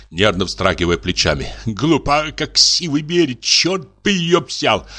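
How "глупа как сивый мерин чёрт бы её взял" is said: indignant. A narrator's reading. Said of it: "возмущался Кистунов".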